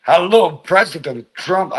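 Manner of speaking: a light attempt at a Russian accent; rough Russian-accent demo. Shown as a demonstration. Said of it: "I can do Russian accent".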